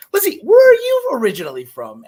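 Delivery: put-on high, loud Boston accent. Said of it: "your Boston accent, sweet".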